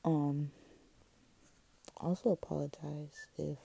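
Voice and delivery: words slightly slurred by retainer; wearing a retainer. Real, not acted. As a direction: talk around a retainer in the mouth. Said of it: "my retainer jacked up anything I said".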